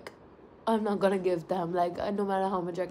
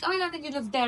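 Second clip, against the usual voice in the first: mocking snob; 6 semitones higher, faster than usual. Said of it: "They're like".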